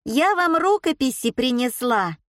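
put-on high squeaking old woman; squeaky. A narrator's reading. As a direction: pipe it up squeakily. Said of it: "пропищала баба Валя".

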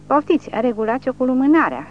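high, loud gleeful yell; delighted shout. A narrator's reading. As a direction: shout it with cruel glee. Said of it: "strigă Sonia încântată". (strigăt încântat, tare și înalt)

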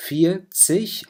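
فيرتسج said high with a final rise; German vierzig. Shown as a demonstration. Teacher models فيرتسج for students, high. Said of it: "وبنضيف لها تسج".

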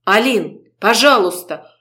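plain reading voice

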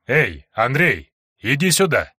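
slow, concerned calling out; worried call. Acted. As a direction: call him over, uneasy. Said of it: "Голос кадета звучал озабоченно".

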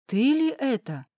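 put-on an old father stunned to see his daughter, slow and high; amazed old father. Father sees daughter dressed up, slow amazed question.

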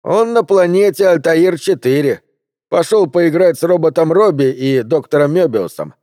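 high-pitched mocking taunt; chuckled jeer. A narrator's reading. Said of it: "хохотнул Кайл Арченбург". (насмешка высоким голосом, с издёвкой)

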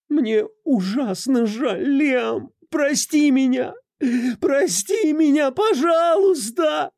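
very high, slow, rising to a wailing shout; desperate sobbing cry. Acted. A sobbing wife cries to her husband for forgiveness, desperate. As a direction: wail for forgiveness. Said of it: "В её крике звучало отчаяние".

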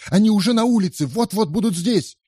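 very high, fast panicked warning. A narrator's reading. Andrea sees the mob: very high panicked warning. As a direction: cry out in panic.

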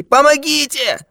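the second cry rises to a wail of terror; terrified cry for help. Acted. Old man wails for help in mortal fear, terrified. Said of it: "закричал старик в смертельном ужасе".

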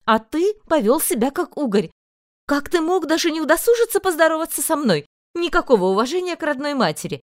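high, scolding; lightly voiced indignant mother; reproachful mother. A narrator's reading. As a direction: chide him from up high.

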